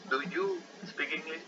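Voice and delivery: slow, soft model question; model sentence. Shown as a demonstration. Teacher reads the example question to students, slowly and softly. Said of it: "por ejemplo".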